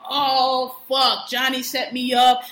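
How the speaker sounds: loud panicked cry of a cornered man; mock panic, Oh fuck slow and loud; panicked outburst. Caesar panics, retold.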